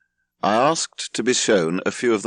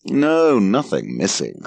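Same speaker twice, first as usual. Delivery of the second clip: bitter; 4 semitones higher, 4 dB louder, slower than usual. Acted. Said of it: "said Larry bitterly".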